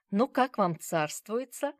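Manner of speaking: plain reading voice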